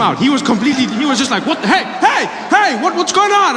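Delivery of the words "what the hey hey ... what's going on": high alarmed yelps; startled cop. Retold or imitated. Policeman startled by man on car, high alarmed yelps. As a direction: play the spooked policeman, pitch way up.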